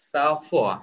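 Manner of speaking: সাফোয়া said slowly and clearly as sa-fwa, no ng and no d; French pronunciation. Shown as a demonstration. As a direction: spell out সাফোয়া as the French sang-froid. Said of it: "এটার উচ্চারণ হচ্ছে সাফোয়া". (ফরাসি উচ্চারণে সাফোয়া)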